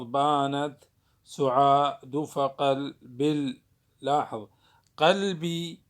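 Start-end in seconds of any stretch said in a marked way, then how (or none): 0.0-3.6 بانت سعاد فقلب read slowly, syllable by syllable; drawn-out scansion of بانت سعاد; metrical reading. Shown as a demonstration. Teacher demonstrates scanning the verse slowly.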